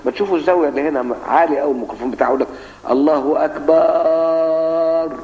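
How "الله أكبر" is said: أكبر drawn out very slowly as akbaar, with an extra long a after the b; slow mock adhan with أكبر sung as akbaar; mocking wrong call to prayer. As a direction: imitate a muezzin who stretches أكبر into akbaar. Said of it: "بيحط ألف بعد الب".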